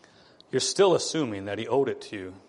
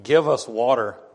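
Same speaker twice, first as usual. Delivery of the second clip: accusing demand; 3 dB louder than usual. Retold or imitated. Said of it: "They're saying".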